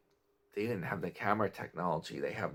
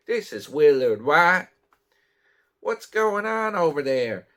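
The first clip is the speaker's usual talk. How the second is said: much higher and louder, like a voice through a distorting voice box; 6 semitones higher, 9 dB louder than usual. Retold or imitated. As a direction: ham up a villain's disguised voice on the phone. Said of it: "he had that voice box".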